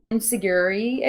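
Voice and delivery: "Enzuigiri" as en-sig-YOO-ree, rising at the end; unsure pronunciation. Shown as a demonstration. Fan unsure of the move's name, "Enzuigiri" as a tentative en-sig-YOO-ree. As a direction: try out "Enzuigiri" with a questioning lift. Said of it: "gonna say this wrong probably".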